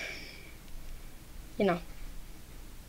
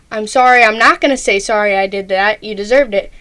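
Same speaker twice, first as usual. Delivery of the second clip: mock passive-aggressive non-apology; 4 dB louder than usual. Replying to someone who yelled at you, mildly passive-aggressive. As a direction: start to apologize, then pointedly take it back. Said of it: "don't be so passive-aggressive about it".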